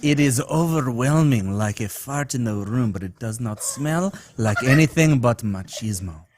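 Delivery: sultry voice. Acted. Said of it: "That was sultry".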